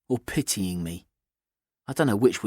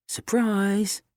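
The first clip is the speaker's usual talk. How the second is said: higher, bright teasing reveal; spring it on him cheerfully; cheerful surprise; 9 semitones higher than usual. A narrator's reading.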